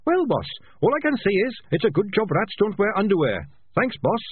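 very high, cheery little rat voice; chirpy and polite though trapped; Sardines' voice. A narrator's reading. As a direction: rat cheerfully updating his boss. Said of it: "said Sardines".

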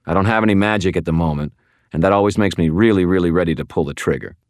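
fast, tense threat; menacing warning. Acted. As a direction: rattle off the threat quickly. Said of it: "I warned her".

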